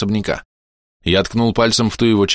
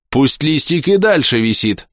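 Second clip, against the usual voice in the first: higher, slow menacing warning; 7 semitones higher, slower than usual. A narrator's reading. Kira furious, armoring up.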